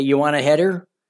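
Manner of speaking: ordinary delivery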